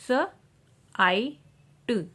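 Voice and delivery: स, आई, ट said one sound at a time. Shown as a demonstration. Teacher showing IGH words, sounding out स, आई, ट. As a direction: isolate स, long आई and ट. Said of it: "आई का जो vowel sound long".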